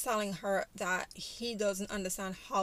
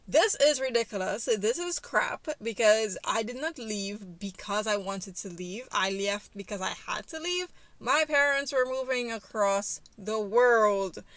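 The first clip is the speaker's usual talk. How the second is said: mock-indignant, punched opening, slightly raised; retold angry protest; 4 dB louder than usual. Father protests to his ex that he had to leave, angry. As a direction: act out his angry defense. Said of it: "He is really angry".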